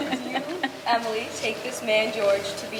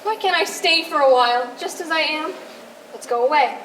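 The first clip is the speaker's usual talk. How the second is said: desperate begging; 4 semitones higher, 3 dB louder than usual. Acted. Bride begs her father.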